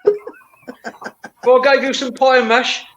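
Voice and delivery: high, hammed-up cockney voice; cockney accent. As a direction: tell it like a London geezer. Cockney story, rhyming slang.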